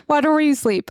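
laughing through the words. Real, not acted. Cohost botches a saying for laughs, laughing. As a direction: garble a saying while cracking up.

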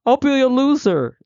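high, fretful wail of worry; panicked thinking. Retold or imitated. Speaker playing the worrier in the exercise, high panicky. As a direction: play the catastrophizer, pitched high.

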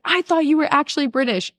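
put-on London accent. Londoner to the fake Brit, imitated London accent. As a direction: quote him in a high London accent. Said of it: "one of her friends is from London".

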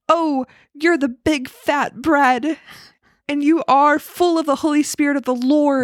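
slow, sultry angel voice; a hint of an angel, drawn out slowly. Angel praises the bread, slow and drawn out. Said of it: "And the angel said".

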